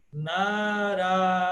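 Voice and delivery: Narayana slowly, first two syllables long; classical Narayana. Shown as a demonstration. Teacher summing up long and short vowels. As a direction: hold the first two, clip the last two. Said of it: "dois primeiros são longos".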